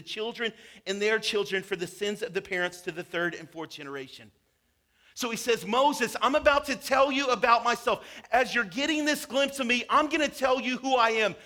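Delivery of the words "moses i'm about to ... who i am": louder, raised proclamation; proclaiming as God. Acted. God announcing himself to Moses, in a raised proclaiming voice. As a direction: announce yourself with authority.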